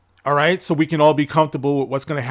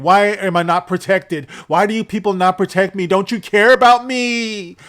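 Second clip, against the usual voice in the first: pleading actress quote; 4 semitones higher than usual. Retold or imitated. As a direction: plead to be protected, voice climbing. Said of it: "she also said the same thing".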